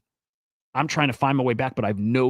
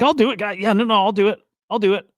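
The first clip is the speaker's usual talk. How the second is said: high, bright eager offer; overeager, jumping at the chance; eager volunteering; 8 semitones higher, 5 dB louder than usual. Retold or imitated. Naive guy eagerly offering to drive.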